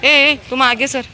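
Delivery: high, loud shoo to a dog; loud high scolding. Real, not acted. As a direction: drive the greedy dog back. Shooing a dog.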